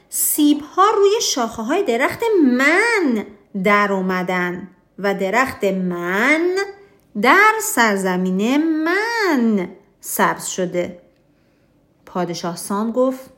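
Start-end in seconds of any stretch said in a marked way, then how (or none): 0.1-11.0 hammed-up king yelling about his tree; King Oscar shouting. King Oscar yells at King Sam over the apple tree, mock shout. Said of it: "پادشاه اسکار فریاد زد".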